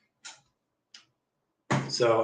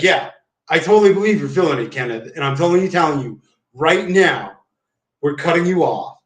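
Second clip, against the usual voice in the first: mock pit boss; 3 semitones higher, 4 dB louder than usual. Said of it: "He's like".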